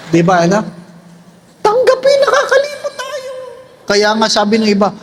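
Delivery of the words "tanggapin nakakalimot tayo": high, laughing giggly confession; real laughter on the line; laughing admission. Real, not acted. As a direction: laugh it out as you admit it.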